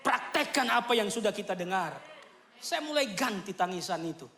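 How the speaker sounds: ordinary talk, nothing marked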